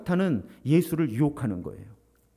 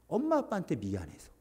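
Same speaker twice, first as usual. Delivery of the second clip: whispered confession; 6 dB quieter than usual. Retold or imitated. Child whispering guilt toward mom and dad. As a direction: whisper it, ashamed. Child's inner thought retold.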